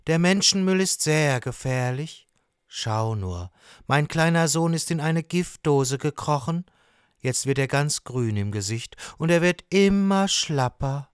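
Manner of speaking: mildly woeful lobster dad; sad lobster father. Acted. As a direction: confess your worry to an old friend. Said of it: "sagt Papa Hummer traurig".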